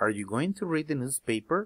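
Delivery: rising, questioning tune climbing on newspaper. Spanish-language lesson on English yes/no questions: rising intonation on newspaper. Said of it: "la entonación al final de la pregunta sube".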